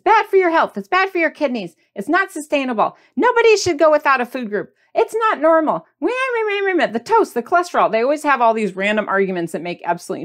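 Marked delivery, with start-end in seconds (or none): 0.0-7.9 higher lightly mocking nag; mock food police. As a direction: mimic lecturing critics.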